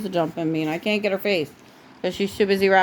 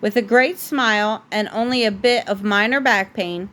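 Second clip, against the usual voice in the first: steady, gentle bedtime storybook read; reading a story to a child; 3 semitones higher than usual. A narrator's reading. Parent reading The Princess and the Pea to a child at bedtime, gentle storybook voice. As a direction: read it like a bedtime book for a little one. Reads picture book to child.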